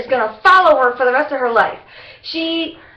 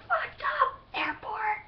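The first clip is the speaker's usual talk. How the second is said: exasperated outburst; 9 semitones higher, 14 dB quieter, slower than usual. Real, not acted. Venting about delays.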